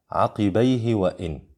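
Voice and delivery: "عقبيه" with a short final hi; unlengthened pronoun ha. Shown as a demonstration. Teacher models the no-madd rule, "عقبيه" with short final vowel. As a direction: say "عقبيه وإن" without stretching the hi. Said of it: "لا تمد هاء الضمير".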